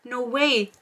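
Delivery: breathy whispered gasp of shock; mock-awed whisper from the office crowd; hushed gasp. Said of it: "And everyone's like".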